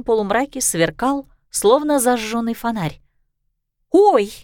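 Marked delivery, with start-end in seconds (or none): 3.9-4.3 higher, louder startled gasp; a dragon gasping at her own glow. Acted. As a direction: gasp in sudden surprise. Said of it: "ахнула Сису".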